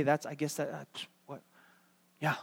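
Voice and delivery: low, soft, hesitant mumble; meek, faltering surrender; caving in. Acted. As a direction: give in haltingly, trailing into a weak agreement. Acts out caving in to the world.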